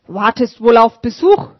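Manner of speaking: put-on raspy old sweeper asking; rough-voiced old man, curious. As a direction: rasp out the question. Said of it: "mit rauer Stimme".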